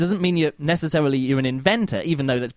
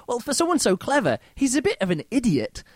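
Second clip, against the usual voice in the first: sarcastic; 8 semitones higher than usual. Retold or imitated. Mocking the clever villain.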